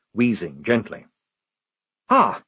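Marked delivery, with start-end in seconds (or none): 2.1-2.4 high, breathless officer; acted shortness of breath; panting. A narrator's reading. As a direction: gasp it out between pants. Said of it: "he panted".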